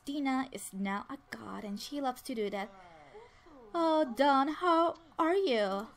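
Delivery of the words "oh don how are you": higher, louder, slow gushing hello; gushing greeting. Acted. Dina greeting Don with air kisses, gushing and slow. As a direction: drawl out a fake-sweet welcome to an old friend.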